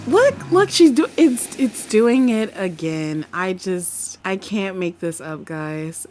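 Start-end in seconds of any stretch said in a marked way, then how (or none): 0.1-3.3 urgent pointing out. Real, not acted. Spots something happening in the game.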